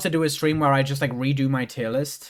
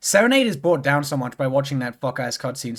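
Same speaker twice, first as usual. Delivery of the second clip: real voice starting to go. Real, not acted. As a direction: voice starting to give out mid-sentence. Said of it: "why is my voice going now".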